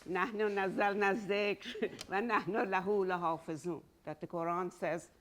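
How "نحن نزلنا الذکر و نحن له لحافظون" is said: Quranic Arabic with Persian accent; quick recitation, Persian-flavoured Arabic. Real, not acted. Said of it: "sorry for the Persian accent".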